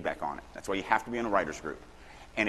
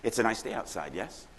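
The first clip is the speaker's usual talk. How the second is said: "yes" tacked on the end as a short question; questioning tag YES. Shown as a demonstration. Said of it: "the sentence with".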